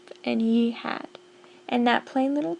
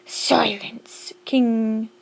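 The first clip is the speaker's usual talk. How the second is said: sharp hushed "Silence", then a loud "king"; barked rebuke; 3 dB louder, much slower than usual. Acted. Yertle barks back at Mac, sharp and commanding. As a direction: bark him down. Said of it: "barked back".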